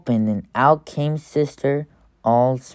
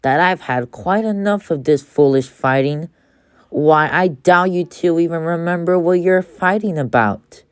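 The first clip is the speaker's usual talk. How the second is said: sternly; 3 semitones higher than usual. Acted. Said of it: "said Mama sternly".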